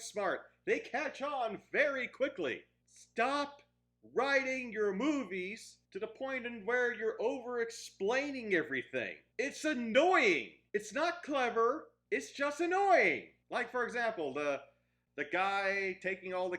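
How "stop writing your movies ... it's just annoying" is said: exasperated rant. Real, not acted. Ranting at Hollywood writers.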